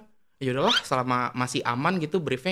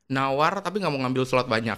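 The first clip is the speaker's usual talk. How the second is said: laughing while repeating. Real, not acted. Host laughing back the guest's gripe about brand haggling. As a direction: laugh the words back in disbelief.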